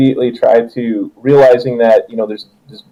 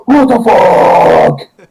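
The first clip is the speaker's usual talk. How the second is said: slow, stretched, louder mock shout; imitating Thalia's scream; 7 semitones higher, 4 dB louder, much slower than usual. GM replaying the player's cry at the table, hammed-up shout. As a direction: drag the curse out in a hammed-up yell. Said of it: "that's what Thalia screams".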